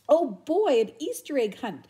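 loud, high joyful shout fading down; excited shout. Acted. Buster thrilled about the egg hunt, shouting happily. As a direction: burst out with glee. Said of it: "shouted Buster".

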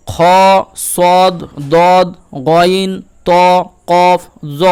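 each letter sounded slowly and deliberately; heavy Arabic letters. Shown as a demonstration. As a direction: spell out the seven heavy letters one by one. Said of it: "সাতটি অক্ষর".

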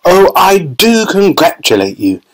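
a hint of an eager, gushing chocolatier; a touch of the excited host praising Charlie; Wonka congratulating. A narrator's reading. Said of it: "he cried".

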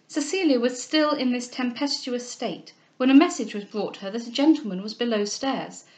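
measured, expressive novel reading; clearly projected storytelling; story narration. A narrator's reading. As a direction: narrate a classic novel aloud. Reads the novel aloud.

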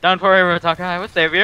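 heroic voice. Pretend. Mock heroic rescue line.

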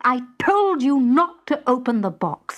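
husband shouting insults, pitch climbing; raging husband. Acted. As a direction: rage at your wife. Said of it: "he raged".

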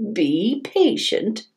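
slow gentle. Acted. Grandma calms child.

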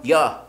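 "You're" begun with a short "yuh"; "You're" with "you" weakened to "yuh"; reduced vowel. Shown as a demonstration. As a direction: say "You're" short, low and falling. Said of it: "You는 뭐로 발음한다고?".

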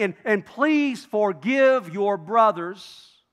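slow, drawn-out plea; mock pleading. Brothers composing their letter to Joseph, pleading slowly. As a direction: stretch out a careful appeal for forgiveness.

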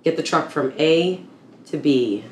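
barked military order. Acted. Soldier drilling herself on convoy rules, barked. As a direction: bark it out like a combat command.

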